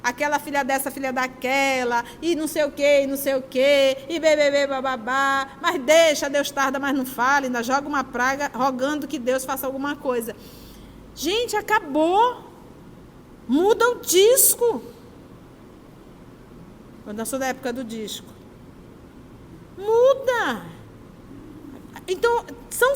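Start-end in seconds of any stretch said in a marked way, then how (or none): 0.0-5.6 mock complaining. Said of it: "aí você vai ficar reclamando". 11.1-20.6 firm, slow order to stop complaining; slow, emphatic command. Acted. Blunt preacher's command to listeners.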